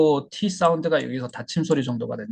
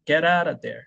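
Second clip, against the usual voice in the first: careful, linked get out of there; slow demonstration; 2 semitones higher, much slower than usual. Shown as a demonstration. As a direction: say 'Get out of there' slowly as a linked model. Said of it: "천천히 한번 해보겠습니다". (Get out of there를 천천히 이어서)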